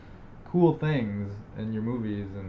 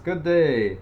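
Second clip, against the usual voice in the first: put-on letter-writer voice; 5 semitones higher, 7 dB louder than usual. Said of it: "you might sound like this".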